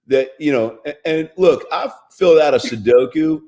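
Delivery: high, slow, hammed-up self-help guru; mock Doctor Phil. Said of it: "I think it was Doctor Phil who said".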